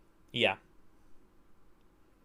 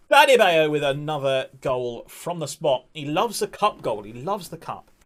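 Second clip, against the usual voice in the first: excited commentary; 3 semitones higher, 6 dB louder than usual. Real, not acted. Commentating own goal excitedly.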